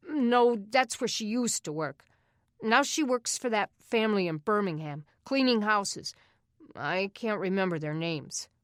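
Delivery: put-on a kid quickly covering for his brother; a hint of a nervous older boy; older boy correcting.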